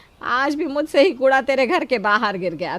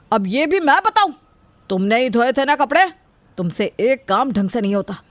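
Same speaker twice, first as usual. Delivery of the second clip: fed-up outburst building to a raised shout; angry scolding; 2 semitones higher than usual. Acted. Husband scolds wife for ruining his work shirt, angrily. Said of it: "क्यों बहू पर चिल्ला रहा है?".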